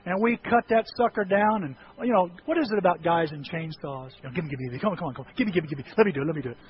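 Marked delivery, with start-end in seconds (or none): 4.4-6.6 soft, low, greedy wheedling; eager guy begging. Retold or imitated. Young guys pleading to use the chainsaw, low eager wheedle. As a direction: beg for the chainsaw like a kid.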